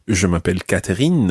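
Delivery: Catherine said the French way; French accent. Shown as a demonstration. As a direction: make Catherine French, with a French r and a clear last syllable. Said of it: "as opposed to".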